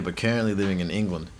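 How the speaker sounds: lightly attempted Australian accent; a touch of Australian accent. Shown as a demonstration. Comic reads out a commenter's reply in a mild Australian accent. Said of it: "Just read that in an Australian accent".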